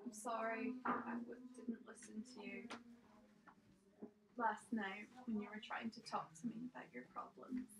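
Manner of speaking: subdued, halting apology, only partly whispered. Acted. Player speaking to Toby's body, softly murmured apology. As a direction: apologise softly, pausing as you go. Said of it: "just whisper to him".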